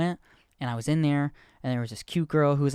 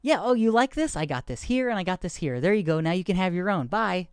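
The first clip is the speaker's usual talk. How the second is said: eager chatter; 5 semitones higher than usual. Retold or imitated. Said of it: "And I'm like".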